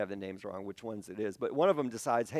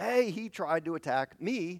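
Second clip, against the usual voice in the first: put-on, high, drawn-out, accusing scream; 7 semitones higher than usual. Retelling a story where the master's wife accuses his servant, retelling a scream. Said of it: "And she screams".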